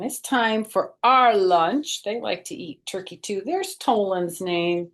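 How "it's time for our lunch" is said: voicing the cats. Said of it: "My cats are saying".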